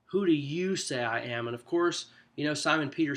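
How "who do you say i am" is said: "you" given the main weight in the question; stress on YOU. Shown as a demonstration. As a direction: lean on "you" as the emphatic word. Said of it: "That's the part that Jesus is emphasizing".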